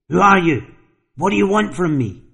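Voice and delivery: frantic shout. Acted. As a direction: call out wildly into the empty hall. Tom shouts into the hallway.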